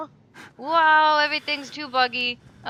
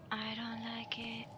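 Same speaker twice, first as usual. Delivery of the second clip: slow scared whisper; uneasy hushed words; nervous whisper; 2 semitones lower, 13 dB quieter, slower than usual. Real, not acted. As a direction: breathe it out nervously. Sketchy area, whispered.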